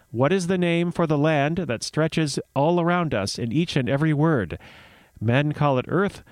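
measured myth storytelling; story narration. Acted. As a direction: read it like a fireside tale.

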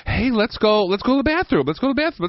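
high, repetitive pet-talk; coaxing a dog. Retold or imitated. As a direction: pitch it up to urge a dog along.

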